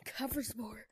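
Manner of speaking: muttered under breath; whispering. Real, not acted. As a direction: whisper it to yourself. Muttering about own bad play.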